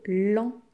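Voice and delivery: lendemain split into lan, de, main with gaps; separated syllables. Shown as a demonstration. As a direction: say lendemain in three distinct beats. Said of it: "Combien de syllabes dans lendemain?".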